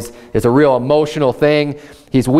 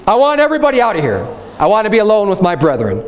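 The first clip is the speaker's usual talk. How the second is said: higher, fast mock cry to clear the room; calling everyone out, lightly acted; 5 semitones higher, faster than usual. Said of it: "He cries out so everyone could hear him".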